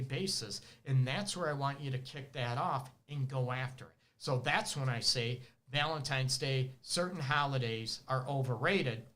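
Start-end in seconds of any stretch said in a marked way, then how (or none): 4.2-9.0 talking while out of breath; breathless from talking fast. Real, not acted. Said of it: "Let me catch my breath".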